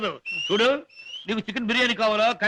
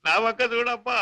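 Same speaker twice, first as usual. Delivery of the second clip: raised, keening fake grief; mock lament; 3 semitones higher than usual. Con man fakes grief to the car driver, keening. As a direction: lament for show, pitching it high.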